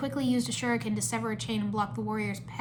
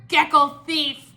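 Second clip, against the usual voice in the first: loud, slow, raised insult; squabbling monk; 5 semitones higher, 9 dB louder, much slower than usual. A narrator's reading. Monk still arguing with geckos, angry shout. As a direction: hurl the insult back heavily. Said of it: "were still arguing".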